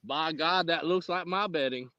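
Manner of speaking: mock Texan twang; Texan accent. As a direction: marvel like a country Texan. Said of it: "we just both do Texan".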